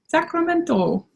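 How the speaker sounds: high, playful Spanish-style pronunciation; lilting Spanish-accented place name. Real, not acted. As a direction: say it as if it were Spanish. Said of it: "I don't know why I said that's Spanish".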